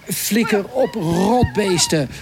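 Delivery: imitated cry to chase something off; mock farmer shout. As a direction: call it out as farmers shooing pests, without full volume. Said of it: "roepen ze dan".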